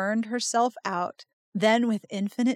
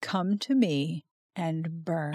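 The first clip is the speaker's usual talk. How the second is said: voice of the shadow god; 3 semitones lower, 4 dB quieter than usual. Retold or imitated. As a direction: summon her softly like a dark god. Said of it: "He says".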